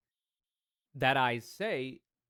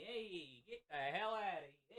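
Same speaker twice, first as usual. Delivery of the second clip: mock shooing; 4 semitones higher, 11 dB quieter than usual. Continues shooing.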